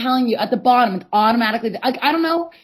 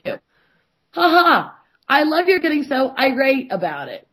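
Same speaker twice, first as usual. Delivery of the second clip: mocking partner; 3 semitones higher, slower than usual.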